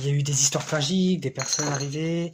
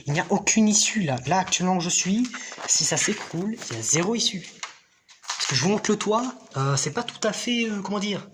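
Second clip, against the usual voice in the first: scared horror game streamer; 6 semitones higher than usual. Real, not acted. No exit, roof may collapse.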